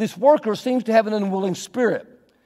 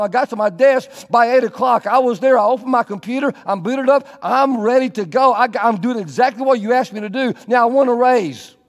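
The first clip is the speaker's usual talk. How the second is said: bragging employee; 3 semitones higher, 3 dB louder than usual. Acted.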